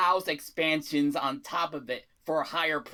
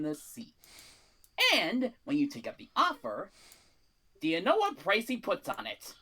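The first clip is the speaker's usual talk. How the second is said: fast, pitched-up sales pitch; carnival barker; 5 semitones higher than usual. Acted. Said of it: "Why do you sound like a carnival barker?".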